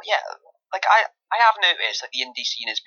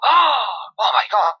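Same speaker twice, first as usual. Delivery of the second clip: much higher, drawn-out gushing disbelief; mock shocked soap fan; 8 semitones higher, slower than usual. Mocking soap viewers gasping at a plot twist, squealing. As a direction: squeal it like a hooked EastEnders viewer. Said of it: "they'll just go".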